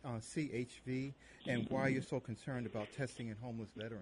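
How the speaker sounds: distant, faint phone line; far away. Real, not acted. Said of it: "You sound so far away".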